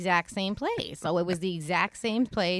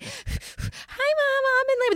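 a higher, breezy mock voice; 轻松调侃的高声模仿; mock calm mother; 5 dB louder, slower than usual. Calm mothers texting, mocked.

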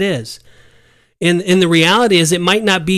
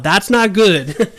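drawn-out, slightly raised pronouncement; said out loud; 3 semitones higher, much slower than usual. Shown as a demonstration. Host shows readers how to call out sin, slow spoken-out declaration. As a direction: declare it slowly, every word out loud. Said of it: "you have to say that out loud".

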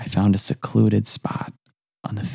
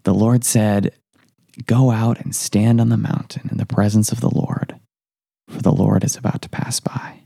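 solemn Bible reading; scripture reading. Acted. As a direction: read the verse reverently. Reads scripture passage.

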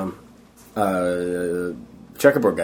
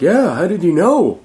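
higher, slow, wide-eyed reply; naive kid; 8 semitones higher, 4 dB louder, slower than usual. Retold or imitated. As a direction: play your younger self, earnest and clueless. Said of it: "I'm just like".

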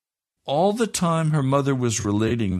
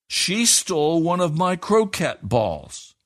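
put-on high, slow child's accusation; high, slow indignant boy at home; indignant boy accusing; 6 semitones higher than usual. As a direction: stress SHE, a boy tattling. Edward accuses Katie.

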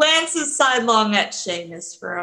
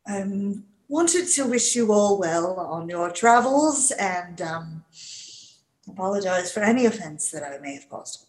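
formal apology; 2 semitones lower, 5 dB quieter than usual. Acted. Leaf apologizes in character.

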